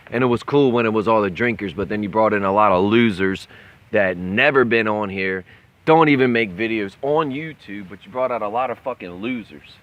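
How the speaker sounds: yelling furiously at the chat; loud angry rant; angry shouting. Real, not acted. Drunk rant at chat rivals.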